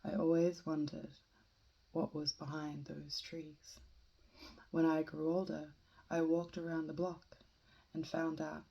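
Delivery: measured poem reading with deliberate pauses; solemnly recited free verse; poetry reading. Acted. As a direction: read it line by line, letting each image stand. Reads a poem aloud.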